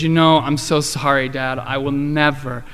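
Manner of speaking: understated tearful daughter's apology. Retold or imitated. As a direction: retell her remorseful promise gently, not truly crying. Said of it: "she started crying, and she said".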